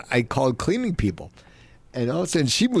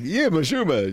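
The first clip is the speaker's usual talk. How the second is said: put-on Jewish town accent; 5 semitones higher than usual. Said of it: "if I grew up in a Jewish town".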